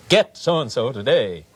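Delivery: a slow, lightly done ad pitch; TV selling voice. Shown as a demonstration. Sellers demonstrating a TV ad voice. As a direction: sell it like a TV announcer. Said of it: "TV selling voices".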